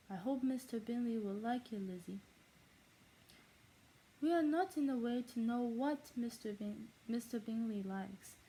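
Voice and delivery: novel read in an amateur German accent; fake German accent. Shown as a demonstration. Vlogger practising fluent reading of Pride and Prejudice, fake German accent. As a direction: put on a shaky-at-best German accent. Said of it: "in my fake German accent".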